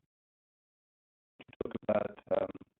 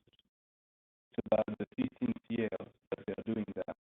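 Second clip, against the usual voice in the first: choppy phone line breaking up; glitchy robotic call audio; 4 dB quieter than usual. Real, not acted. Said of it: "Your audio is breaking up really bad".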